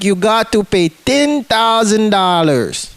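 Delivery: slow, deliberate translator voice; lightly voiced stern translator; slow flat demand. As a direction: spell out the price slowly.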